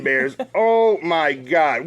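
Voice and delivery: slow picture-book sigh at the Bears; drawn-out mock storybook despair; storybook lament. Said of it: "read a little thing called I Was So Mad".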